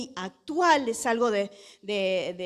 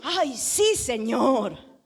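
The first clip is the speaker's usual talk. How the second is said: mock obedience; much slower than usual. Preacher acting Jonah's reply to God, mock obedient. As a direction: play an over-willing servant, tongue in cheek.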